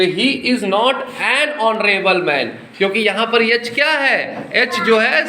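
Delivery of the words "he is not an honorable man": slow reading. Shown as a demonstration. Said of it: "जो अभी ऊपर आपने कॉन्सेप्ट पढ़ा".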